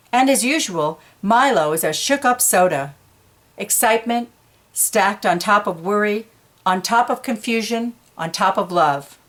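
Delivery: put-on animated storyteller voice for young listeners; reading to children. A narrator's reading. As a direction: read it like a picture book to kids. Reading picture book aloud.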